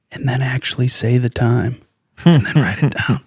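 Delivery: lightly voiced folksy TV doctor giving advice; Doctor Phil impression. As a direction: friend gently doing Doctor Phil. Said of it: "That was a pretty good Doctor Phil impersonation".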